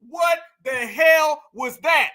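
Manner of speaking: slow, loud, stretched out; incredulous shout. Real, not acted. Reacting to the Walmart commercial, slow shout. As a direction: drag each word out in disbelief.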